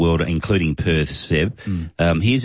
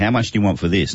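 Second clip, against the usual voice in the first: put-on voice in a Scottish accent. Retelling what a man asked about a free bike: imitating a Scottish accent. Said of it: "had a Scottish accent".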